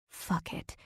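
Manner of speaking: breathy whispered curse, barely audible. Acted. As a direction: let it slip out as a hushed whisper. Inner thought at a shocking sight.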